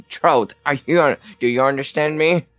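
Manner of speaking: a touch of mock menace; mock threat. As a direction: threaten in a half-joking yell. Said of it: "I was like".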